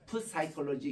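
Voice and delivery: 푸사이콜로지 with the P fully pronounced; 푸사이콜로지 said with the silent P sounded out; spelling pronunciation demo. Shown as a demonstration. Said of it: "푸사이콜로지 이렇게 발음해야 되는데".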